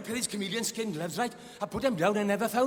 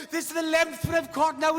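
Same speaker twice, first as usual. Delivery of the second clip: high, loud exasperated cry; mock shouting; 8 semitones higher, 4 dB louder than usual. Billy shouting from the swamp to Max, mock yelling. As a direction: yell it like you're worn out. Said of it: "he was shouting and screaming".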